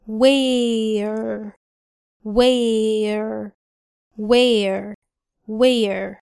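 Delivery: where with the mouth a bit open, like a smile. Shown as a demonstration. Teacher drilling where with an open mouth. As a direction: say where as if smiling slightly. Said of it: "فالفم فيها مفتوح شوية".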